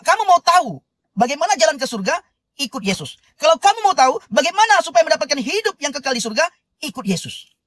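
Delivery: earnest sermon voice, building and lifted; preaching. Acted. Host preaching to live viewers about Dale, earnest sermon. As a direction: preach it to the congregation with conviction.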